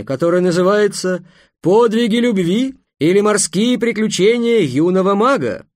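grand, loud, high showman's announcement; booming circus ringmaster. Acted. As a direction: proclaim it like a fairground barker. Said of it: "торжественно сказал". (громогласный конферансье цирка)

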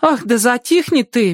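exaggerated rustic accent, pitched high; hammed-up country drawl, scolding the hen; overdone foreign pronunciation. A narrator's reading. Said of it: "говорит с нарочитым акцентом".

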